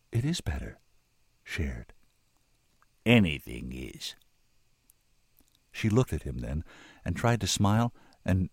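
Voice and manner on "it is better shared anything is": wondering. A narrator's reading. Woman realises the shared burden is easier, wondering. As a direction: let each thought dawn separately. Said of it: "she said wonderingly".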